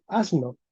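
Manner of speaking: "asno" with a plain hissed s before the n; unvoiced S pronunciation. Shown as a demonstration. Teacher shows class the form not used, s left voiceless in "asno". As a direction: say "asno" with S kept voiceless, as spelt. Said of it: "no se pronuncia asno".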